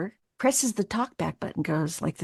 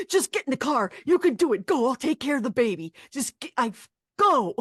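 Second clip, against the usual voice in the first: imitated husband, higher and insistent; urgent encouragement; 4 semitones higher than usual. Husband sends wife off to audition, urgent encouragement. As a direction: push them out the door, building to the final "go". Husband urging her out the door.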